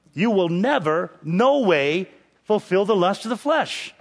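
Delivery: "never" and "no way" punched, each set apart; double emphatic. Acted. Preacher restating the verse's promise to listeners, doubly emphatic. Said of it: "double emphatic".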